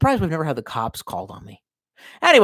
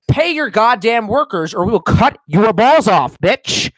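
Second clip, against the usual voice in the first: angry rant; 6 semitones higher, 7 dB louder than usual. Acted. Ranting threat at employers.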